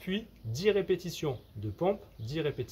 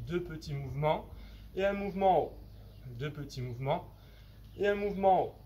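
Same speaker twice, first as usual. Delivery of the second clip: talking while lifting weights. Real, not acted. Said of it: "Donc je vous montre les mouvements".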